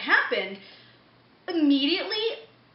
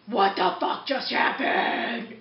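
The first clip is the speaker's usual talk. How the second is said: slow, drawn-out disbelief; hammed-up stunned question; mock bewilderment; slower than usual. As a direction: stretch each word in exaggerated confusion. Bewildered reaction on getting in car.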